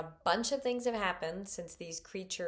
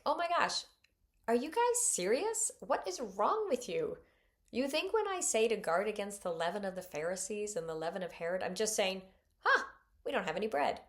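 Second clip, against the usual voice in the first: eye-rolling disbelief at the disciples; exasperated; 2 semitones higher, 5 dB louder than usual. Retold or imitated. Preacher voicing Jesus fed up with his disciples, exasperated. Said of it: "he does have this exasperated tone".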